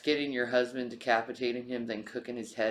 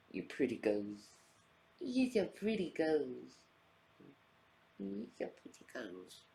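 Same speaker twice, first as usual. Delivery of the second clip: cooing to cat; 5 dB quieter than usual. Real, not acted.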